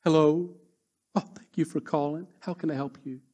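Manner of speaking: imitating a sickly sweet phone greeting; soft, sugary hello after a tirade; mock sweet phone voice. Preacher mimics an angry person turning sweet on the phone. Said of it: "pick up the phone so sweetly".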